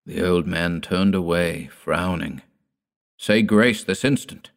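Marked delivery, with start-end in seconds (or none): 3.2-4.5 commanding. Acted. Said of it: "repeated Dord".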